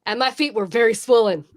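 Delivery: amused, breaking into laughter; laughing punchline. Real, not acted. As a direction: deliver the punchline about to crack up. Punchline of her joke, laughing.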